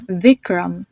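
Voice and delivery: "Vikram" with the I of kit; short I in Vikram. Shown as a demonstration. Teacher giving an example name, short I in "Vikram". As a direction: say the first vowel of "Vikram" short, as in sit. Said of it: "has a it sound to it".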